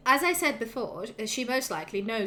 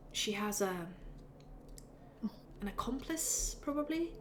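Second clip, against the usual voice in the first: soft, halting, unsure voice; timid hesitant mumble; 6 dB quieter than usual. Acted. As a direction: barely dare to speak up. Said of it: "raises his hand and says".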